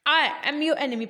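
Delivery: slow, drawn-out "I", then "am your enemy"; stress on I. Shown as a demonstration. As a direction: punch "I" and let the rest follow. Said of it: "पहले का मतलब क्या".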